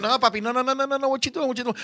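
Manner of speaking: softly voiced string of no's; hushed protest. Woman halting eager young lover, softly protesting. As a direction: lightly imitate a partner halting him, hushed. Retold partner halting him.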